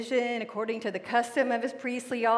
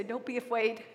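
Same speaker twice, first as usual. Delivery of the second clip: tender; 6 dB quieter than usual. Real, not acted. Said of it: "I always hear".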